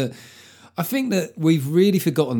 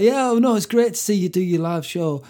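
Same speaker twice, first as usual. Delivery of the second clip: impersonating a fan; 8 semitones higher, 4 dB louder than usual. Retold or imitated. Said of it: "It was like".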